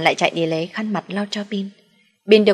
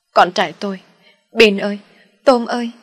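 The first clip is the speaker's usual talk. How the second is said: calling out; 3 semitones higher, 5 dB louder than usual. A narrator's reading. Mother calls for lost children.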